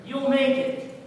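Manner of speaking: a hint of a commanding God voice; God speaking. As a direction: speak as God calling Elijah back. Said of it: "That's what God was telling him".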